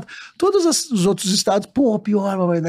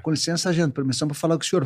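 lower, softer, deferential soldier; meek recruit request; 4 semitones lower, 5 dB quieter, faster than usual. Acted. Recruit asking a sergeant's permission to speak, meek. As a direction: ask politely, keeping it small. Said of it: "Tu ia conversar com um sargento de boa".

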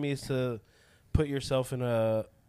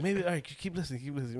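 hushed self-talk; 8 dB quieter, faster than usual. Retold or imitated. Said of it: "And they're like".

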